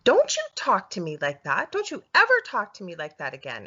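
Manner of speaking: a touch of fury in a retold quote. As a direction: re-enact an angry telling-off, punching key words. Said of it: "I was just furious".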